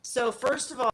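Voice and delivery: breaking up on a bad line; crackling phone audio cutting out; crackly cordless phone. Real, not acted. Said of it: "You're, you're breaking up again real bad".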